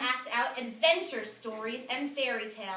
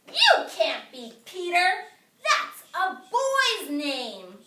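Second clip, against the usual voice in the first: mock bossy kid; 5 semitones higher, 9 dB louder, slower than usual. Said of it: "Raj said".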